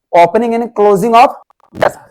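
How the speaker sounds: very slow, with a rise on "of"; slow dictation. Shown as a demonstration. Teacher repeating the phrase for students, very slowly. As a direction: lay out each word slowly, lifting on "of". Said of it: "तो".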